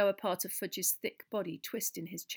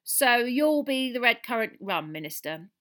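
hint of a pub landlady character; barmaid serving; 5 semitones higher, 10 dB louder than usual. A narrator's reading. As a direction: draw out the order, higher, dropping on the title. Barmaid serving the Minister his drink.

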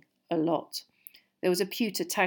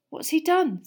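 high, louder anxious question; worried asking, pitch jumping up; nervous; 10 semitones higher, 5 dB louder than usual. A narrator's reading. Harry asks after a loud splash, nervous. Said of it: "said Harry nervously".

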